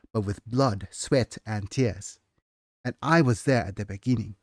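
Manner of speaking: measured storyteller reading; story narration. Acted. Author reading her novel to chat, measured narration. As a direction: read it like an old scribe's memoir.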